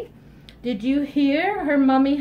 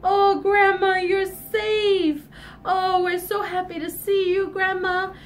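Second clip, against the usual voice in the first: relieved joy; 3 semitones higher than usual. Acted. Joyful reunion with Grandma.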